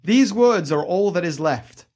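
ominous inscription voice; creepy caretaker. Acted. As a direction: warn them off like a ghostly keeper. GM reads inscription voice.

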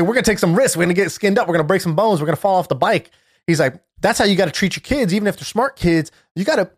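rally the room like a coach; hype rant. Retold or imitated. Retelling a CEO's rant to a conference crowd, rallying. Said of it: "going on this rant".

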